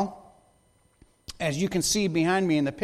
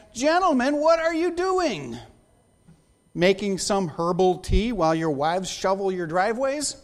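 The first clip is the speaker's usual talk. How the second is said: mock southern accent; 4 semitones higher, 3 dB louder than usual. Senator scolding absent male colleagues, mock Southern accent. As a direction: play a Southern lady chiding the gentlemen. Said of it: "where she got the southern accent".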